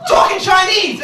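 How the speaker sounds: high, put-on voice; mock teasing voice; mock girlfriend. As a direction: jab at him in a mock voice. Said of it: "she goes like".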